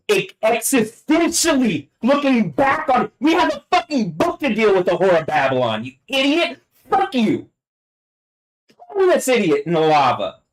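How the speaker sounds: very high, furious yelling; real screaming rage. Real, not acted. Cursing an idiot with Babylon, real screaming fury. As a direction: scream the insults at the top of the range. Peak of angry tirade.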